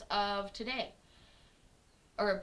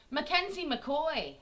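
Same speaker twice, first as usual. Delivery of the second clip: put-on Scottish accent; 4 semitones higher, slower than usual. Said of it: "sounds like a Scottish lass".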